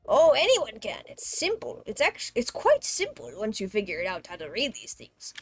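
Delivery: lightly voiced game villagers, lively; character voices. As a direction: act out each villager's lines brightly. Reads game dialogue in voices.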